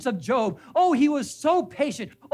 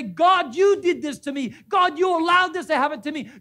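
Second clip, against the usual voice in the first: raised, louder angry plea to God; angry cry to God; 3 semitones higher, 3 dB louder than usual. Retold or imitated. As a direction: cry out at God with hurt anger.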